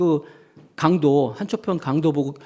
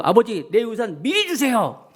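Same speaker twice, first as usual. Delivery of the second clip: slow, raised-pitch demand to father; demanding son; 4 semitones higher than usual. Acted. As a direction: play the son pressing for his share. Younger son demands his inheritance. (재촉하며 요구하는 아들 목소리)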